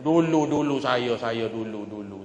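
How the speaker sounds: slow drawn-out boasting that fades down; a lightly voiced pompous boaster; arrogant braggart. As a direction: drag out "dulu" like a pompous man bragging. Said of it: "Sombong kan".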